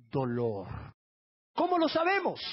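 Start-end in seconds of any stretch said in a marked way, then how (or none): 1.5-2.4 much higher, ringing question; rhetorical challenge. Real, not acted. Preacher asking the congregation how they know, high-pitched challenge. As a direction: throw the question out high to the crowd.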